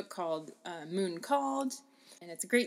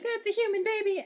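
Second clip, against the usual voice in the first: relieved mother; 13 semitones higher, 4 dB louder, much faster than usual. Retold or imitated. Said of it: "she's like".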